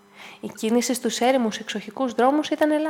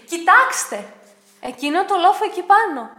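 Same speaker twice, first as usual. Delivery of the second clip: loud, higher excited call; excited pointing out; 7 semitones higher, 9 dB louder than usual. A narrator's reading. Dick showing the others a strange hill, excited call.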